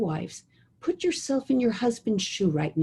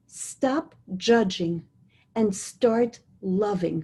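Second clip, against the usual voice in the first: slow emphatic; slower than usual. Shown as a demonstration. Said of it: "I'll say that again".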